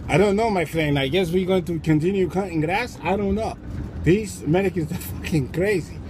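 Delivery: lightly put-on Mexican accent; unimpressed onlooker with a Mexican accent. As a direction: play a bemused Mexican worker's accent. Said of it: "Meanwhile, the Mexicans are".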